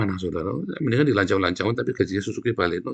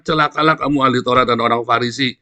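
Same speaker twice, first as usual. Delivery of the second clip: Jesus's woe; 2 semitones higher, 8 dB louder than usual. Retold or imitated. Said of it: "kalau bahasanya Yesus".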